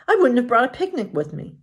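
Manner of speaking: light, kind princess; Snow White. Acted.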